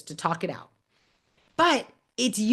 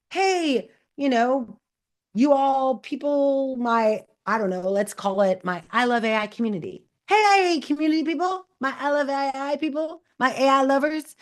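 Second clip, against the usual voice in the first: calling out; 4 semitones higher than usual. Shown as a demonstration. Demo calling out her community.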